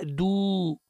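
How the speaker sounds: دو held long, like "duuu"; wrongly lengthened "du" in دو; over-stretched dal. Shown as a demonstration. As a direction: drag the u of دو into a long waw. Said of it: "عملت واو صلة".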